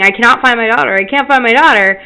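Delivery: mild mock scream of panic; retold scream. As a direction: insist urgently, voice lifted. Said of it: "I'm, like, screaming".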